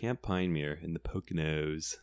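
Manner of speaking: Camp Pine Mere said slowly and carefully, stress on Camp; official pronunciation. Shown as a demonstration. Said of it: "That's the official pronunciation".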